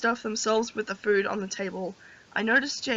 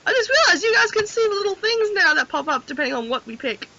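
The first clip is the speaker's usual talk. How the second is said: laughing while talking; 9 semitones higher, 4 dB louder than usual. Real, not acted. Breaking up with laughter.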